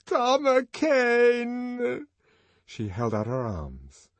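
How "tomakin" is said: very high, long-drawn cry of the name; anguished call. Acted. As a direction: call to him in grief. Grief-stricken woman calls her lover.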